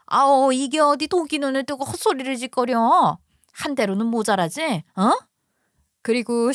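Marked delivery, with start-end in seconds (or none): 0.1-5.1 put-on louder, scornful older woman snapping; mother-in-law fury. Mother-in-law lashing out at daughter-in-law, angry. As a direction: spit the insult at her.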